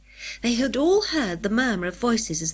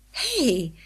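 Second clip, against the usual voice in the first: surprised; 3 semitones higher than usual. Acted. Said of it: "said Julian in surprise".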